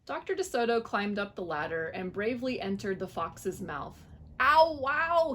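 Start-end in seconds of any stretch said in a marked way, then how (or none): 4.4-5.3 high, loud startled yelp; gasp. A narrator's reading. Dentist gasping inside the fox's mouth. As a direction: recoil from the bad breath. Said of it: "he gasped".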